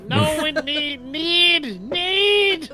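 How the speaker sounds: loud, high, desperate repeats; high frantic pleading. Acted. Character pleads with inner voice.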